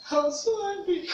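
SO lifted high, voice rising in real anger; emphatic repeat. Real, not acted. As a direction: let the anger break through on the second go. Repeated emotional admission.

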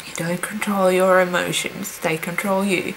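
tearful near-whisper; through tears. Real, not acted. Admitting to viewers she is crying, tearful whisper. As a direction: voice sinking to a breath as the tears come. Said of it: "And I wasn't gonna cry".

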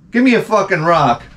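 hammed-up heckling; mock heckler. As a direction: play a gleeful tormentor in the street. Acting a passerby taunting man in stocks.

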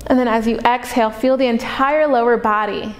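calm body-scan meditation voice with long pauses; unhurried, even-toned meditation guide, leaving space to breathe; guided meditation. Acted. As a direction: guide them into relaxation, pausing between phrases.

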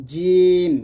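long "জিম", middle of tongue against the palate. Shown as a demonstration. Teacher showing tongue placement, drawn-out "জিম". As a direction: hold "জিম" with tongue clear of the teeth. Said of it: "জিহ্বার মধ্যখান".

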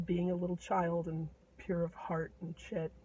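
usual speaking voice

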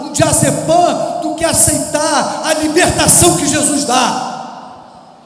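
fiery sermon shout; shouting preacher. Real, not acted. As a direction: pound every phrase at the congregation. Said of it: "Por que que esse pastor tá gritando tanto?".

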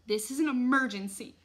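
loud, high, distressed appeal; frantic mother's wail. A narrator's reading. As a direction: wail it urgently. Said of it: "my mom wailed".

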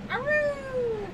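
high yipping howl; husky howl. Acted. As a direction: let out a dog's aroo. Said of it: "Trina Husky says".

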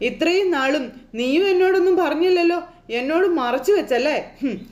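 angry grandmother. Retold or imitated. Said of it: "അച്ചമ്മ രേവതിയോടും ദേഷ്യപ്പെടുക".

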